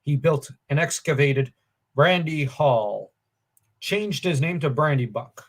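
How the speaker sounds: measured storybook reading with a strong opening; deliberate, lifted narrator delivery; story narration. A narrator's reading. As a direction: read it out like an old legend. Reads a paragraph aloud from the book.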